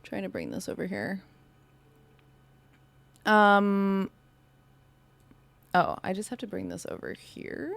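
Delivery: eating noodles while talking; mouth full. Real, not acted. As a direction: talk through a mouthful of noodles. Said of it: "You're eating noodles on stream".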